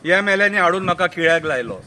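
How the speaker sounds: full-voiced recited line; declaimed verse. Madgaon politician blames the MLAs, declaimed. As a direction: declaim it out to the audience. First take of repeated verse.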